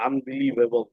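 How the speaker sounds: আনবিলিভেবল read slowly, syllable by syllable. Shown as a demonstration. Teacher joins the syllables back together slowly. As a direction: build the word up slowly. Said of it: "আ, ন, আন".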